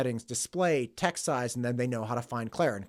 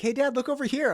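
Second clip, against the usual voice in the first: high, louder imitation of a kid; child calling Dad; 12 semitones higher, 5 dB louder, faster than usual. Parent retelling nine-year-old's phone trick, child calling Dad. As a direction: pipe up like a kid angling for Dad's attention.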